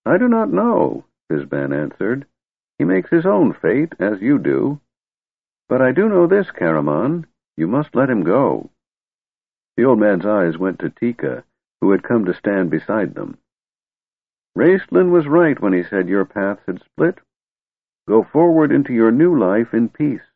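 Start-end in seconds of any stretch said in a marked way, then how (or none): 0.1-8.7 put-on grumpy old wizard. Old wizard counsels Caramon. 14.6-20.3 put-on grumpy old wizard.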